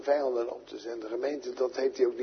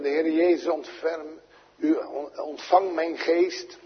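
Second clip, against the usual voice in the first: pleading prayer; 3 semitones higher than usual. Acted. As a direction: plead it slowly to the Lord. Prayer of Stephen voiced aloud.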